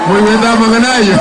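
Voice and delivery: loud call to the crowd; rally shout. Real, not acted. Rally speaker calls to crowd.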